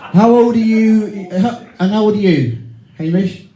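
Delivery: drawn-out mock insistence; insistent repeat. Real, not acted. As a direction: press him for the answer. Repeats question louder, slower.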